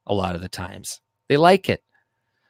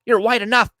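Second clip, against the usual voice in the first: much higher imitating an enraged woman; mock angry woman; 12 semitones higher than usual. Mocking the angry woman's retort, high mock rage. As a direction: ham up her fury, pitched high. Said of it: "she was angry as shit".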